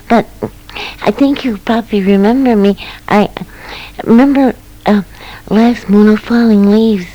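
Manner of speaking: lightly voiced mouse remembering a friend; light squeaky mouse voice. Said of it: "the little squeaking voice said".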